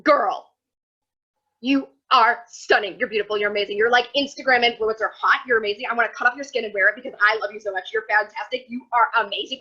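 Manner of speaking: loud, over-the-top gushing praise; mock hype-friend gushing. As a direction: pile on the compliments like a hype bestie. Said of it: "she's just like".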